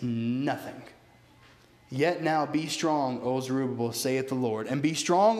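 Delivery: solemn, measured reading of the prophet; formal King James reading, falling on saith; scripture reading. Acted. Reads scripture aloud.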